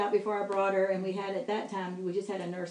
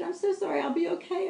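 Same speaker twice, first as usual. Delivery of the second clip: retold sobbing apology; 9 semitones higher, faster than usual. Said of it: "And then I started sobbing".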